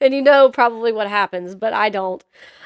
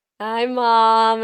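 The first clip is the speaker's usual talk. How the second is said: put-on mumble as if mouth is full. A mother retells her son answering her over the camera, imitating Stetson with mouth full. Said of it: "you could tell he had something in his mouth".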